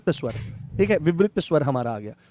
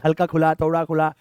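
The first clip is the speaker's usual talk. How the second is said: mumbling gutkha chewer; 2 semitones lower than usual. Retold or imitated. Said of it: "जैसे कोई गुटखा खाता है ना".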